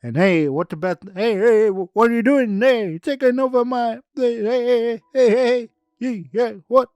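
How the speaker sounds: hey hey hey, stop him taking over; indignant shouting. Acted. Ernie shouts at the one taking his organ, high loud protest.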